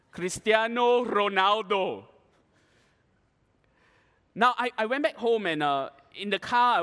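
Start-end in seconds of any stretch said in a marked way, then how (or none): 0.1-2.1 slow, drawn-out proud name; full-voiced, stretched-out boast; grand announcement. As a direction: announce the name like a star's introduction. Proud answer to own question.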